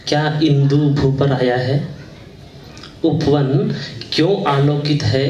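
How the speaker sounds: measured Hindi verse with pauses between lines; poem recitation. Acted. Poet presents a poem on garden beauty to listeners, reciting. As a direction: recite each line deliberately, letting it settle.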